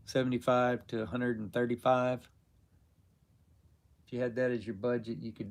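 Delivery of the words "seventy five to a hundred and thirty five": auctioneer patter. Real, not acted. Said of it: "sounded like an auctioneer".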